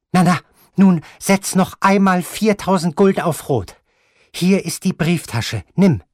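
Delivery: high, loud, imperious grandmother; imperious grandmother sending him off, high and loud; angry old grandmother. Acted. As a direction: snap at him like a furious old lady. Grandmother voiced in the story.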